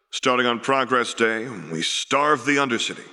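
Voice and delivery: whispered, grim and final. Acted. Councillor whispering to the chamber that the Undercity will starve, grim whisper. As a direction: breathe it out like a sentence passed. Grim announcement after the vote.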